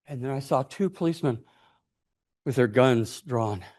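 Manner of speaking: ordinary talk, nothing marked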